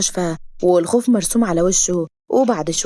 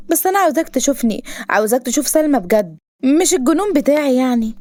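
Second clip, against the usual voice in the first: lightly voiced heroine, pitched up; mildly earnest, higher heroine voice; insistent heroine; 6 semitones higher than usual. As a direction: insist with a touch of pleading. Heroine pleading with hero.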